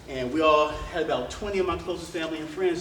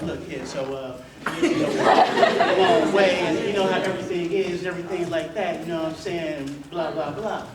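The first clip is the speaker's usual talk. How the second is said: smooth talker. Retold or imitated. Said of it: "say something real smooth".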